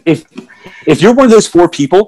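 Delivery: walking around while talking; pacing near and far. Real, not acted. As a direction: voice drifting near and far from the mic. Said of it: "I'm actually pacing right now".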